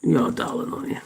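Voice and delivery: soft, breathy whisper to the dog; hushed, unvoiced "You are a darling"; whispered pet talk. Real, not acted. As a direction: whisper it tenderly to him. Murmuring to the pet.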